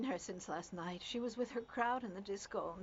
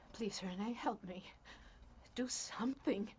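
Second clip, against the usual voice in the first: desperate plea; 4 dB quieter than usual. Acted. Distraught mother begs husband for help.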